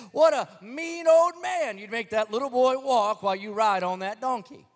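put-on high, loud scolding of a mean old man; scolding villagers. Townsfolk scolding the old man riding the donkey, indignant high voice.

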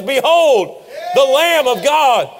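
ringing shout of announcement; big booming proclamation; proclaiming. Acted. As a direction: call it out like a prophet pointing. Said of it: "he says".

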